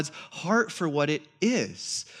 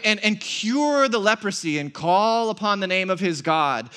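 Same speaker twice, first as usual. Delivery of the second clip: retold anger; 2 semitones higher, 4 dB louder than usual. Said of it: "He's angry".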